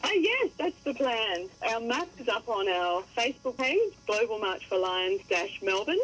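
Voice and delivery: muffled, like speaking through a tube; boxy, suppressed phone sound. Real, not acted. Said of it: "It's as though you were speaking through a, through a tube".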